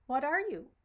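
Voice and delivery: high, loud eager question; excited duckling. Acted. Duckling asks the new creature eagerly, high and loud. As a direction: squeak it out with wide-eyed curiosity.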